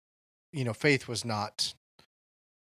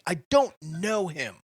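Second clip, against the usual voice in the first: a higher, emphatic I don't know him; exasperated denial; 6 semitones higher, 4 dB louder than usual. Retold or imitated. Peter's third denial in the movie, in mild exasperation. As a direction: pound the table with the words, lightly. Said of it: "a fist pounding the table".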